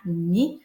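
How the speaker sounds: "ami" as two separate beats, a... mi; split into syllables. Shown as a demonstration. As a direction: pause between the a and mi of "ami". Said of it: "séparer, là, mon mot en syllabes".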